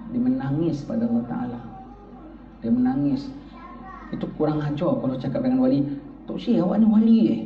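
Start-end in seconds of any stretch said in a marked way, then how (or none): 6.2-7.4 loud blunt mock question to the shaikh; rude questioner. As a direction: barge in with a tactless question. (soalan kurang ajar yang lantang)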